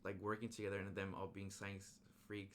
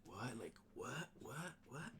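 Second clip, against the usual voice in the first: confused what; 4 semitones higher, 4 dB quieter, slower than usual. Retold or imitated. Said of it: "They're just like".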